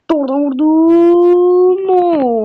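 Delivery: loud, slow excited call; excited shout. Real, not acted. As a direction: cheer the strike. Shot from midfield.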